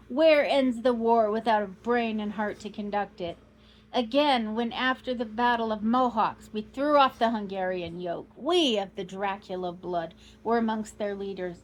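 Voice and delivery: put-on loud proud old Count, declaiming; boasting Count. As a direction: thunder out the glory of his race. Count boasts of his race.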